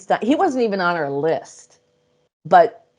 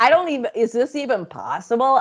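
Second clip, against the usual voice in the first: incredulous; 6 semitones higher than usual. Retold or imitated. Retold doubt, half laughing.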